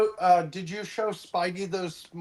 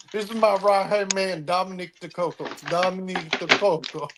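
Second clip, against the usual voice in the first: mock Italian, said twice; bad Italian accent. Quoting Brad Pitt's fake Italian in Inglourious Basterds. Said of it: "He had the worst Italian accent".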